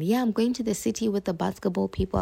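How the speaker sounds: quick, carefree telling of plans; fast breezy quote. Retold or imitated. Telling everyone about the trip, quick and breezy. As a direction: rattle it off cheerfully. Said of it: "I was telling everyone".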